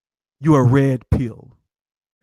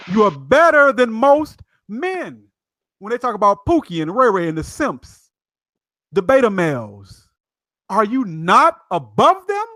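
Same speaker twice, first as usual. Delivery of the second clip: yelling; 5 semitones higher than usual. Real, not acted. Host yelling to men in the live chat, excited shout. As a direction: shout it out to the men, getting emotional. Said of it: "Excuse me for yelling".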